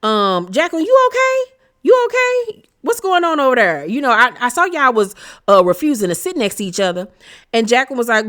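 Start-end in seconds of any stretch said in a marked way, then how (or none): 0.5-7.1 much higher, sugary mock concern; fake concern. Giselle stirring the pot with Jacqueline, mock-sweet high voice. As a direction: play innocent, poking at her. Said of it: "So she says".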